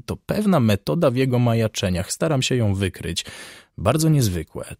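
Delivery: lightly voiced doctor, amused and musing; a hint of a talkative surgeon, varied melody; chatty hospital surgeon. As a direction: discuss a curious case with detached relish. Surgeon's chatty monologue in story.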